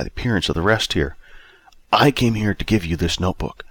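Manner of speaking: understated elder character, softening toward the end; gently earnest, lightly played elder; lightly voiced oldest self, earnest.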